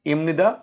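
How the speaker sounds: ইমনিদা said as Korean im-ni-da; ইমনিদা, crisp Korean syllables; Korean imnida. Shown as a demonstration. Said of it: "মুখস্থ করা উচিত".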